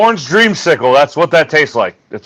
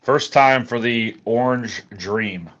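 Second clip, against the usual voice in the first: talking around ice in mouth; words round a mouthful of ice; 2 semitones lower than usual. Real, not acted. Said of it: "I got ice in my mouth".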